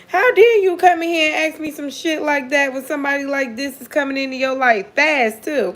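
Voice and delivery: high, playful mock outrage; mock indignation. Tarot reader teasing a client over a good reading, mock indignant.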